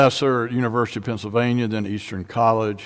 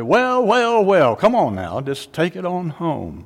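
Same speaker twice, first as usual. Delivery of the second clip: deacon cheering; 5 semitones higher than usual. Retold or imitated. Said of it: "they're gonna pick it up and say".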